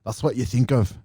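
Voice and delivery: half-hearted Scottish accent; bad Scottish accent. Shown as a demonstration. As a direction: repeat it in an attempted Scottish brogue. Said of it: "I'm not doing a very good Scottish accent".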